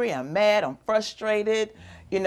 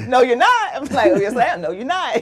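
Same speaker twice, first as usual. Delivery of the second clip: tag-free retold squabble; 6 semitones higher, 7 dB louder than usual. Retold back-and-forth over a name.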